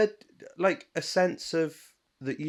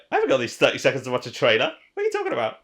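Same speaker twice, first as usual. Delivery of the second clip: mocking her excuse; 4 dB louder, much faster than usual. Co-host mocking her friend's trailer excuse, mock indignant. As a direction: mimic a friend's huffy excuse, tongue in cheek. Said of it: "and you're like".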